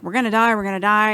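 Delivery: lightly voiced mock panic; half-hearted imitation of freaking out; retold panic. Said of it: "Marlon's panicking and freaking out".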